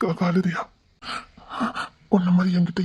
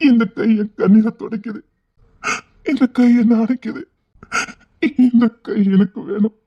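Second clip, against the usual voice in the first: tearful joy; 4 dB louder than usual. Acted. Overwhelmed man weeping with joy.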